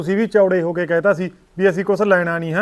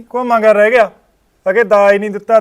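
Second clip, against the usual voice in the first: heated argument; 6 dB louder than usual. Acted. Son arguing with his mother.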